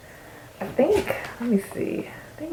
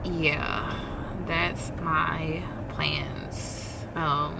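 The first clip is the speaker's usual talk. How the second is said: whispering; 3 semitones lower, 9 dB quieter, much slower than usual. Real, not acted. Whispered trailing line.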